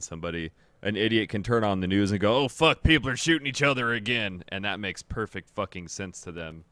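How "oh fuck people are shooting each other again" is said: louder, higher mock outburst; mock alarm. Imitating an idiot watching the news, mock alarm. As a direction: exclaim it like a panicked news viewer.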